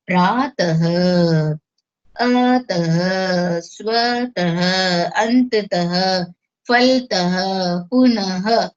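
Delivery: प्रातः, अतः, पुनः said slowly with a breathy ह at the end; slow visarg demo. Shown as a demonstration. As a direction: breathe out a clear ह after each word. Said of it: "ह के रूप में होता है". (विसर्ग वाले शब्दों को धीरे बोलकर अंत में ह सुनाना)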